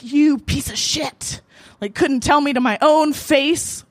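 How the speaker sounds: slow, drawn-out insult, building in indignation; retold pissed-off rant. Woman cursing the man who ghosted her, pissed. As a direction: imitate your own outraged accusation. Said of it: "I was just pissed".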